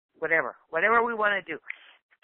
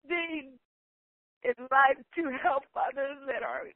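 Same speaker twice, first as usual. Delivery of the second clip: emotional, near tears; 4 semitones higher than usual. Real, not acted. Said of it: "Sorry, but I'm so emotional".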